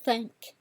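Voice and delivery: "Think" as a first-tone drill; high flat tone. Shown as a demonstration. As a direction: THINK level in the upper range. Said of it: "Let's say it again".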